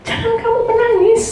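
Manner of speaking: high-pitched imitated reproof; rebuke. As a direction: tell mourners off, acting it out. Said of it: "Tuhan menegur".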